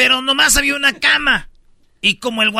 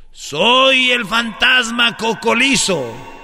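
ghost voice; slower than usual. Acted. Ghost punchline.

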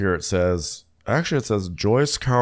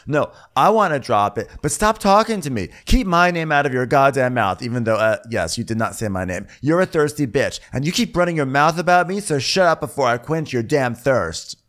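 higher-pitched mock rant; angry telling-off; 6 semitones higher than usual. The speaker tells TJ to stop talking, mock angry. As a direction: act out a heated, raised-pitch rebuke. Acted quarrel.

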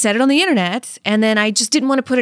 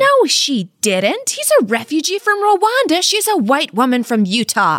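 higher-pitched, outraged objection; indignant disbelief; 4 semitones higher than usual. Real, not acted. Co-host objects to Teal's claim of shared trauma, indignant disbelief. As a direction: protest it in sheer disbelief.

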